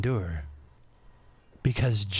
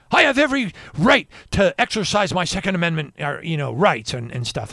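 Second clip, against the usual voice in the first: louder, defiant mock of the pastor; belligerent tone; 3 semitones higher, 5 dB louder than usual. Pastor snapping back on the phone, belligerent. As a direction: puff up and insist on your rights. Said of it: "he says back to me in a belligerent tone".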